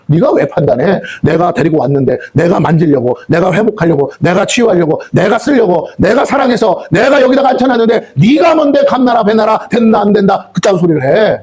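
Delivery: insistent rebuke, climbing in pitch; God's rebuke. Acted. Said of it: "하나님은 저에게 말씀한다고요".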